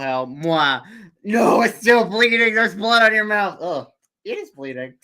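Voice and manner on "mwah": kissing it better. Acted. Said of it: "Can I kiss it better?".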